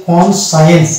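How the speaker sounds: "কনসায়েন্স" as "কন" joined to "সায়েন্স"; silent C. Shown as a demonstration. Teacher builds the word from its parts, "কনসায়েন্স" with silent C. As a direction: model "কনসায়েন্স" with a plain S after "কন". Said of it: "এখানে কন যুক্ত হয়েছে".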